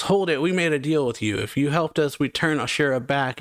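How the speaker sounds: lightly imitated yell, starting high; mild mock yell. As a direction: act out calling a halt, voice lifted. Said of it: "she yells".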